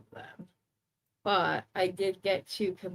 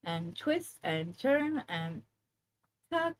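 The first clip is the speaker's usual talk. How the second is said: aerobics instructor; 3 dB quieter than usual. Shown as a demonstration. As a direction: count off moves like a fitness coach. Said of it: "I can make it sound like where I'm an aerobics instructor".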